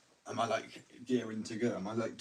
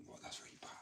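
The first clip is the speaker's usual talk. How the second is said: whispering; 16 dB quieter than usual. Retold or imitated. Americans reacting to the sound.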